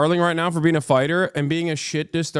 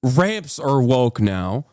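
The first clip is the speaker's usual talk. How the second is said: mock slow; 4 semitones lower, much slower than usual. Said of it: "they say, like".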